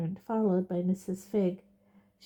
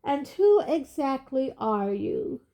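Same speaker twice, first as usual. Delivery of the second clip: bored and lofty; 5 semitones higher, 4 dB louder, slower than usual. A narrator's reading. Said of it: "said Fudge in a bored and lofty voice".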